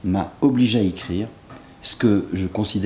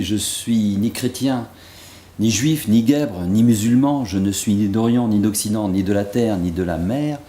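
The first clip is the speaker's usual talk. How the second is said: driving, insistent recital of a litany; poem recitation; 3 dB louder than usual. Acted. Poet quoting Rumi to the festival audience, emphatic recitation. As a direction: recite the verses in one rising, emphatic sweep.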